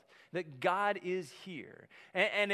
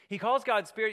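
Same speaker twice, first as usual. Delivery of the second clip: louder, higher, pressing the point; emphatic repeat; 5 semitones higher, 7 dB louder than usual. Shown as a demonstration. Preacher repeating it louder to drive the point home. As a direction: hammer home that God is spirit.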